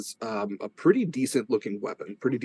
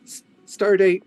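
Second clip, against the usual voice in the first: captain's log voice; 8 semitones higher, 6 dB louder than usual. Pretend. In-character space log parody.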